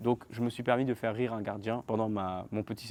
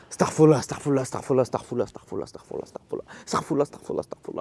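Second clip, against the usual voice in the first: frantic chanted astaghfirullah, loud then fading to a whisper; imitating a madman; 2 semitones higher, 5 dB louder than usual. Imitating the crazed cellmate chanting astaghfirullah, frantic and wild. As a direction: chant it like a man lost in his own head. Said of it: "Il fait comme ça".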